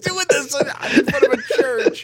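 high, laughing through the words. Real, not acted. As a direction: squeeze it out while cracking up. Laughing at his friend's stunt.

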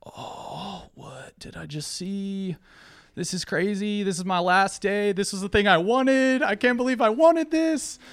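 high, hushed then rising dismay; stunned disbelief. Retold or imitated. Me reeling at the dead pigs, hushed then rising disbelief. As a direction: start breathless, then climb in shock. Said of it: "and I'm like".

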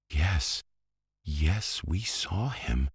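insistent cry. A narrator's reading. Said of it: "cried the girls".

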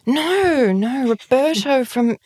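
high, slow, laughing no; laughing insistence. Retold or imitated. Telling a stranger about a mutual friend, laughing high. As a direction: insist through a giggle. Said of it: "And I'm like".

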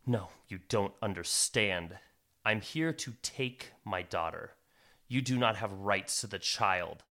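low, firm menacing stranger; stern dark figure. Acted. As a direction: lay down the claim low and firm. Figure refuses, claims child.

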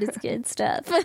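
soft whispered aside. Pretend. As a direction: breathe it out as a secret. Repeated as a whisper.

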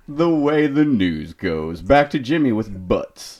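slow, weighty anchorman sign-off; newscaster voice. Pretend. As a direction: sign off like an evening news anchor. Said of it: "Sound like a newscaster".

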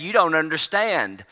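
slow, unbothered and calm; calm castaway reassuring his panicking friend. Retold or imitated. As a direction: lean back and say it like nothing's wrong. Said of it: "calmly looked at him and said".

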